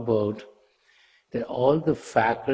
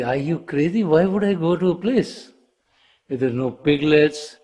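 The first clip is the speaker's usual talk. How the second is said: higher-pitched indignant question; incredulous refusal; 4 semitones higher, 3 dB louder than usual. Acted. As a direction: protest as if the offer were absurd.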